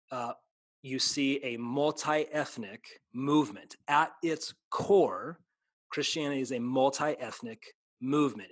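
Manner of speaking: slow, emphatic preacher's cadence; preaching. Real, not acted. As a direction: build the case like a preacher, stretching key words. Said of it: "you're gonna get me preaching now".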